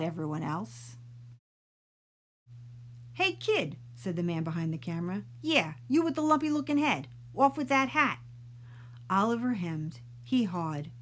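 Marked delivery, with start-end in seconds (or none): 3.1-8.2 higher, fast lightly voiced gruff man; brusque photographer. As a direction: hurry the kid up. Photographer orders the kid.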